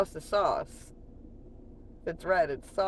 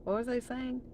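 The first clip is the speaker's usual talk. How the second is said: higher-pitched, suddenly sidetracked voice; acted distraction; 7 semitones higher than usual. Streamer mimics her own ADHD, high distracted voice. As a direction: pitch it up as if losing the thread. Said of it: "That's my A D H D".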